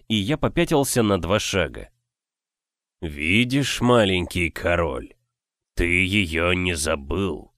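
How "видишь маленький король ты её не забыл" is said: slow stony rasp; rasping stone voice. Acted. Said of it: "прохрипел каменный голос".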